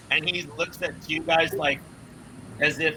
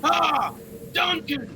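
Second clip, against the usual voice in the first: rowdy dwarf cheer; 9 semitones higher, much slower than usual. Acted. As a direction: whoop and cheer his name. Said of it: "all the dwarves ... are like".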